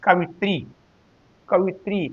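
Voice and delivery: कवित्री run together as one word; joined pronunciation. Shown as a demonstration. Teacher modelling the correct word, कवित्री said joined. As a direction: say कवित्री softly in one piece, no break. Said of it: "इसलिए एक साथ पढ़ते हैं".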